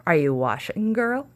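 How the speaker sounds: loud call through a door; witch calling. Acted. Witch calling to Sasha through the door, loud.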